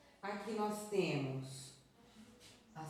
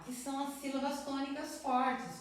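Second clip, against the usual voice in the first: ordinary talk, nothing marked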